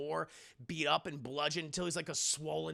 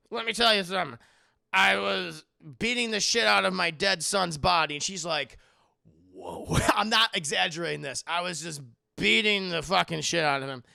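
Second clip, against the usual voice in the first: mock intense mother; 8 dB louder than usual. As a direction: lean in and spin it like a horror story. Mother's creepy confession.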